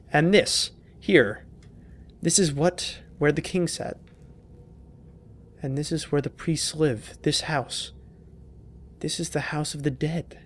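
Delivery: lightly acted fatherly diary reading; reading a note. Reading a father's diary to the viewers, lightly acted. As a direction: read the diary aloud, slow in places. Reads game note aloud.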